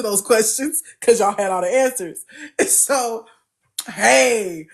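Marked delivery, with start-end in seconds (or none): none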